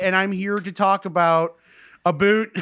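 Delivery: hammed-up Canadian accent, "about" as "a boot"; Canadian-Irish accent. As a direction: play the stereotyped Canadian. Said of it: "Canadian accent is also Irish".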